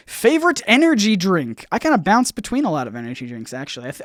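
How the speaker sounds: usual speaking voice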